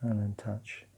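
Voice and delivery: calm, unhurried practice guidance; guided meditation. Acted. Teacher leading partners through grounding and breathing, calm guided meditation. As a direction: guide them gently through it, leaving long pauses.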